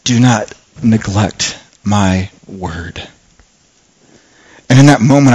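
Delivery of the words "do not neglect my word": slow, soft, lower voice of God; God's voice. Retold or imitated. God speaking to the preacher, slow and soft. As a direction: speak it slowly and quietly as God's gentle rebuke. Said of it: "what I felt like God was saying".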